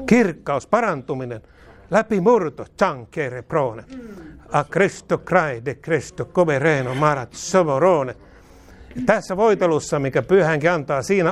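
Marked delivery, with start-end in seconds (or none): 2.8-8.2 speaking in tongues. Real, not acted.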